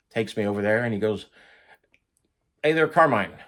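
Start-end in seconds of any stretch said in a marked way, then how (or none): 2.6-3.4 higher-pitched friendly hail; calling out. Retold or imitated. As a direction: call over to someone, pitched up. Calls Carmine over to meet Jimmy.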